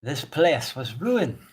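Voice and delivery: lightly voiced solemn zealot; stern zealot priestess, measured. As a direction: speak as a stern bringer of order, measured. Plays NPC Orthelia.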